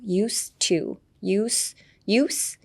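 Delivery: "used to" with no d, just s into t; silent D. Shown as a demonstration. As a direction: say "used" as "yoos", dropping the d. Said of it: "The D is pretty silent". (「used to」のDをサイレントに)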